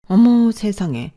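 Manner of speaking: loud slow shocked gasp of words; appalled exclamation; stunned outrage. Acted. Mother-in-law shocked by demand.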